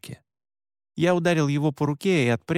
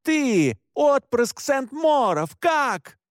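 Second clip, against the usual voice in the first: shouting; 11 semitones higher, 3 dB louder, much slower than usual. Acted. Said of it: "крикнула она".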